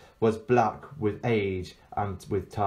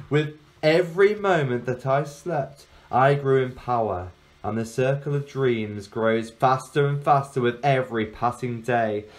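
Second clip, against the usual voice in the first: louder, swelling boast of power; boastful witch-girl; 2 semitones higher, 4 dB louder than usual. Acted. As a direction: gloat over the world she owns.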